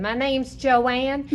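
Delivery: drawn-out stage-audition voice; mock drawn-out answer. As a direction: stretch out her own name.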